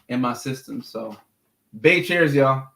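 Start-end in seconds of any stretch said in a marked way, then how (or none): 1.8-2.7 bright, hearty toast to the whole audience; cheerful toast call. Real, not acted. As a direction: raise a glass and call it out to the chat. Calling out a toast to chat.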